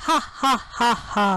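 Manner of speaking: light mock "ha, ha, ha, ha"; acted laughter. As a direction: keep chuckling like the king who can't stop. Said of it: "still kept on laughing".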